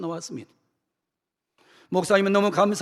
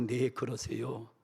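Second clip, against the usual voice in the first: mild flustered pastor; 4 semitones lower, 7 dB quieter than usual. Acted. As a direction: stammer out polite agreement. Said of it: "당황하면서".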